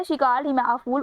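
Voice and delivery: very slow "she called him a fool" without "as"; slow corrected sentence. Shown as a demonstration. Teacher giving the correct form to students, very slow. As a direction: say the corrected line slowly and clearly. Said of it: "as a fool नहीं".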